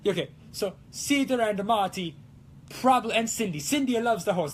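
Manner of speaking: playful put-on Italian accent. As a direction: keep rambling in a hammed-up Italian accent. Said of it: "it's super fun to talk in this accent".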